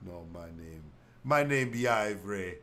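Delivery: lightly put-on Jamaican, insisting; a touch of Jamaican defiance; mock Jamaican accent. Castaway denying his old name in mock Jamaican. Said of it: "accent nobody knows".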